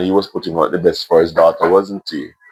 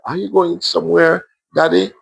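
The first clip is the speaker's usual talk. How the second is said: put-on higher child's anxious question; worried little girl; 9 semitones higher than usual. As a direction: ask like a frightened small girl. Scared child asks.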